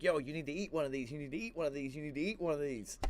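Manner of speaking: mock nagging in a quick, repetitive run; retold nagging. Mother-in-law bugging her husband to eat, retold nagging. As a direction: pester him lightly, repeating without a break. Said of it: "kept bugging her husband".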